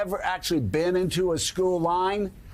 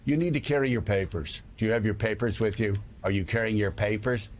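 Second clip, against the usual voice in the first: mock demand; 8 semitones lower, faster than usual. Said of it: "And saying".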